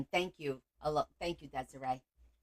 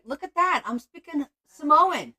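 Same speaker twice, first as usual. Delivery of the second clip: proud show-off; 9 semitones higher, 8 dB louder than usual. Real, not acted. Showing off her language skills.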